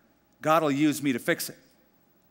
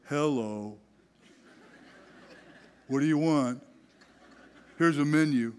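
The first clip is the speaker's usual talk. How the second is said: grumpy waiter. Retold or imitated. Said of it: "you go".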